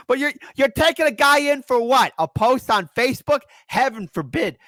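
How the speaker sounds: high-pitched, loud disbelief; incredulous protest. Real, not acted. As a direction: protest as if it's absurd.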